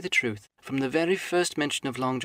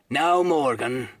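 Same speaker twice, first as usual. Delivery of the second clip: slow, louder stern warning; very sternly; 5 dB louder, much slower than usual. Acted. Silver sternly confronts old Morgan, slow and loud. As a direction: weigh each word at Morgan. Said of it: "said Long John very sternly".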